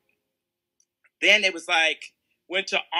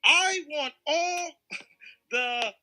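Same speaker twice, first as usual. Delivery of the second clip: imitating Ari Emanuel; 2 semitones higher, 4 dB louder than usual. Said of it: "here I am. I'm Ari Emanuel".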